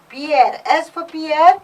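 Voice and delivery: "Pierre" said loud and firm, then rising on its repeat; emphasis on Pierre. Shown as a demonstration. Teacher showing emphasis on the proper noun, "Pierre" stressed loudly. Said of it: "Here I'm laying emphasis on".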